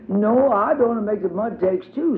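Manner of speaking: put-on small and careful like the youngest child; tiny child voice for Tot. A narrator's reading.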